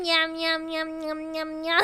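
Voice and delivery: soft fading cat meows; playful meows. Pretend. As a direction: meow softly like a kitten. Meowing at chat.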